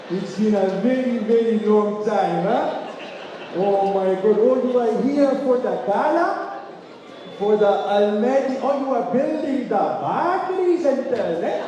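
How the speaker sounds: high, lively Hoja uncle voice, Gujarati-Indian lilt; fond Hoja accent impression. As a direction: imitate a delighted Hoja uncle greeting a young man with that accent. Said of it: "there's this accent".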